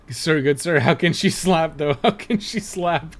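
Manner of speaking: hammed-up outraged meme quote; meme impression. Player quoting viral slap clip, hammed-up protest. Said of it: "how can she slap" thing's a pretty fucking good meme".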